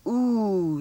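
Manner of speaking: oo held as in boot; long oo sound. Shown as a demonstration. Teacher has pupils listen for boot's vowel, oo held long. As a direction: draw oo out slowly, the vowel of boot. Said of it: "I'll say a vowel sound".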